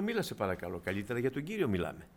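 gentle shocked rebuke. Retold or imitated. Preacher quietly scolding the young smoker for her tone. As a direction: hush her, startled. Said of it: "Λέω".

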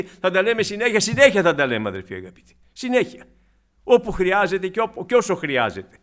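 loud, urgent sermon repetition; forceful pulpit insistence; insistent preaching. Acted. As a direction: press the point home from the pulpit.

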